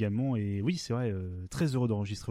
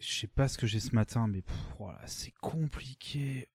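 weary, sighing, dragging voice; drained and sluggish; exhausted. Acted. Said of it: "un sketch où je suis fatigué".

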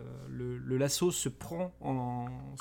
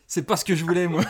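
laughing; 5 semitones higher, 7 dB louder, faster than usual. Real, not acted. GM laughing at failure.

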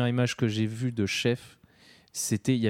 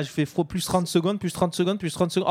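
mock viewer; 4 semitones higher than usual. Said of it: "Je suis comme tous les gens".

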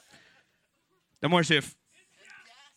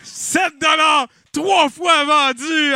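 auctioneer shout; 9 semitones higher, 8 dB louder, much slower than usual. Acted. Auctioneer closing the sale.

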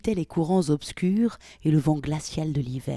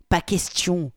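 louder, irritated cut-off; 2 semitones higher, 4 dB louder, slower than usual. Acted. Polly cuts Victoria off, irritated. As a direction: snap it shut, annoyed. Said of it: "d'un ton irrité".

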